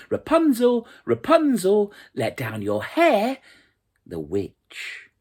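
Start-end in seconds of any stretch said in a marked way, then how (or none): 0.1-3.4 high, loud call up the tower; hopeful prince calling high and loud. A narrator's reading. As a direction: shout it up to the window. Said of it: "came and called".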